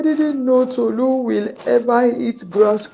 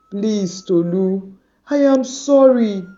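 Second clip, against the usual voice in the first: a pleading friend asking to be forgiven; 2 semitones higher, 4 dB louder than usual. Acted. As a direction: beg her, voice rising. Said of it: "Tayo pleaded".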